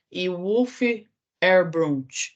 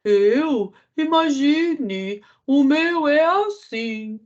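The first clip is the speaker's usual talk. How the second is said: high, slow, spaced-out goat voice; dreamy goat; 7 semitones higher, 4 dB louder, much slower than usual. Acted. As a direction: drift through it like a goat in a daze. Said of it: "que estava no mundo da lua". (cabra aérea, voz alta e lenta)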